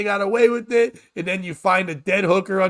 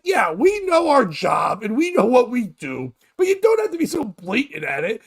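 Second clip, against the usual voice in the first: exasperated hookers; 4 semitones higher than usual. Retold or imitated. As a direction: yell it like a fed-up worker. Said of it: "They're like".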